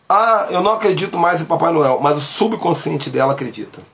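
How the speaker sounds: ordinary delivery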